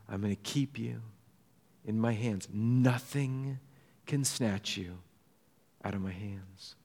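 soft, low promise with pauses; hushed, unhurried assurance; gentle reassurance. Retold or imitated. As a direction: quote it tenderly, as a quiet comfort. Voicing Jesus' reassurance to believers.

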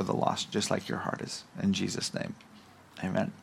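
prayer. Real, not acted. Pastor leading the congregation before his message, subdued prayer.

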